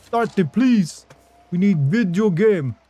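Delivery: high-pitched mock begging accent; general chat voice. Streamer mimicking chat begging for video games, high chat voice. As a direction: plead in a high, silly put-on voice. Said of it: "That's the voice I use for you".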